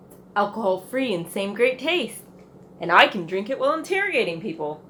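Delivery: brisk, official cop tone; police officer voice. Acted. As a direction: rattle it off like a park officer. Park officer role in ad.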